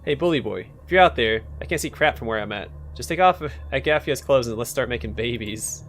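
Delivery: lightly voiced crude belly voice; screechy voice. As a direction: taunt like a rude screechy imp. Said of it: "the voice coming straight out of her lower abdomen".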